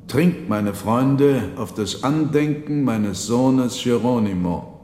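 a father toasting his dead son; Marchese's toast. Acted. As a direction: Marchese urging friends to drink.

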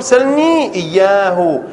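slow, deliberate سلني إياه; slow demonstration. Shown as a demonstration. Teacher models the allowed form for students, slowly. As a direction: spell out سلني إياه word by word. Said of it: "يجوز أن تقول".

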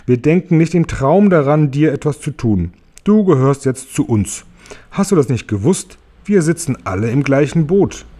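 höher, langsam beruhigend; freundlich. Acted. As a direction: sanft beschwichtigend wie zu einem Kind. Marienkäfer beruhigt James weiter. (Marienkäfer beruhigt James, freundlich und langsam)

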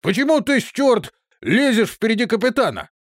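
high, loud, furious demand; captain rebuking his soldier, high furious shout. A narrator's reading. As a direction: yell at him for pushing ahead of his captain.

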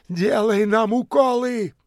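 high clamouring demand; high demanding shout. A narrator's reading. Tramps pressing in, high demanding shout. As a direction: push forward and demand.

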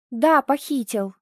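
"Да, похитил!" growled, stress on Да; mother growling back; growled reply. Acted. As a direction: bite out "Да" firmly. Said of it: "рыкнула я".

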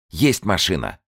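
high, loud urgent commands; urgent push. Acted. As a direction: drive him to act now. Urgent orders.

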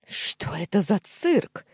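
high, loud, drawn-out protest; indignant screech. A narrator's reading. Cornered uncle to nephew, indignant screeching. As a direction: screech it in outrage. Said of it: "заверещал он".

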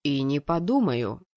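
low, firm refusal; refusing fiancé. Acted. Fiancé refuses her demand.

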